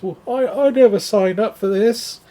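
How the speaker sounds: a frightened robber blurting his protest; terrified. Acted. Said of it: "clearly he's terrified".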